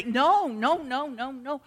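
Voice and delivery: insistent refusals that fall away, then a firm declaration; arguing with oneself. Acted. Believer arguing with their own doubts, insistent. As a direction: argue back at your own thoughts. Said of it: "You have to argue with yourself".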